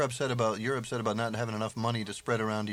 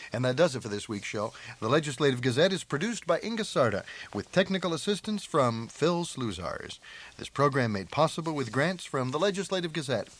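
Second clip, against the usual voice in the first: announcer reading show credits; measured, lifted broadcast credit read; radio sign-off; 3 semitones higher than usual. Acted. Host closing this week's show with credits, announcer style.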